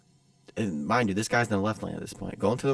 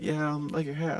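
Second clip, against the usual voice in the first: higher-pitched shy imitation; hesitant mock voice; timid stranger; 6 semitones higher than usual. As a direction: offer it awkwardly, as the skittish guy. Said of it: "and, like, timid".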